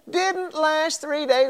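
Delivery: DIDN'T drawn out high and slow; slow emphatic repeat. Acted. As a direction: hammer home "Didn't last three days".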